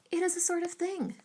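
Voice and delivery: high, loud emphatic cry. A narrator's reading. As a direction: cry it out, indignant and pointed. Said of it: "cried Missus Elton emphatically".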